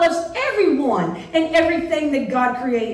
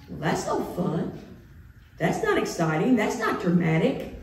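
mock disappointment; 5 semitones lower than usual. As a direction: play the bored listener.

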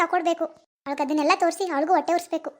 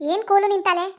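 angry retort; 3 semitones higher, 4 dB louder than usual. Acted. Quarrel, told to cool down.

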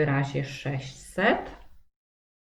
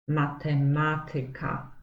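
"matematyka" with MA before tyka stressed; stress on third-last syllable. Shown as a demonstration. Teacher naming school subjects as exceptions, "matematyka" stressed on the second ma. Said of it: "akcent może też padać na trzecią".

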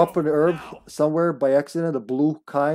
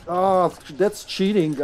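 drawn-out slow whine of protest; slow indignant complaint; 4 semitones higher, much slower than usual. Real, not acted. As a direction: protest slowly, like it's unfair. Complaining after dying.

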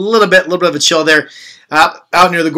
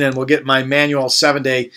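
hiccup cuts the phrase; speaking with hiccups; 3 semitones lower, 4 dB quieter than usual. Real, not acted. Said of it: "pardon me".

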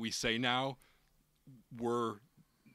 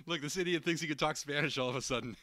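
higher, put-on mocking tone; mock the customer to a friend; 4 semitones higher than usual.

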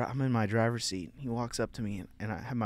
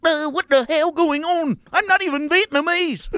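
mock Vietnamese accent; 10 dB louder than usual. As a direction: play how the vet imagines him talking. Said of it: "that's how I'm talking to him".

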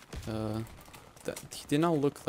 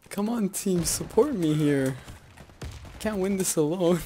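raised, higher voice calling to teammates; loud, high-pitched complaint; exasperated plea; 6 semitones higher, 4 dB louder than usual. Real, not acted. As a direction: plead loudly with your team. Pleading with team for support.

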